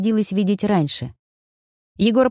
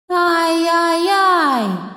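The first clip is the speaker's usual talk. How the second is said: high, very slow mocking echo; eerie echo; 11 semitones higher, much slower than usual. A narrator's reading. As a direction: stretch it like a ghostly echo. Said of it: "раздалось вокруг". (высокое, очень медленное жуткое эхо)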